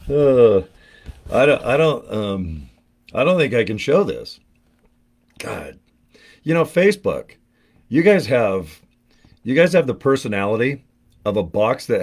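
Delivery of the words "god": whisper. Real, not acted. Shocked by the box contents.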